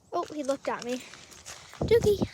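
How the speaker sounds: calling out to the dog; roepen naar de hond. Real, not acted.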